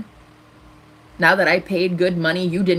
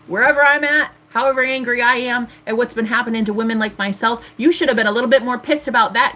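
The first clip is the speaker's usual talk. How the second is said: angry; 4 semitones higher than usual. Real, not acted. Angry at Yasir.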